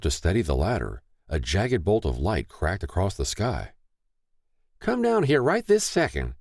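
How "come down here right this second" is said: high, urgent motherly order; demanding. A narrator's reading. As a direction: order him down now. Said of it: "she demanded".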